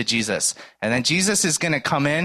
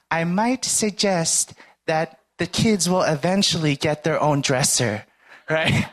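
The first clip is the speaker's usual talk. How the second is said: friendly suggestion; 4 semitones higher than usual. Retold or imitated. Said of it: "very friendly".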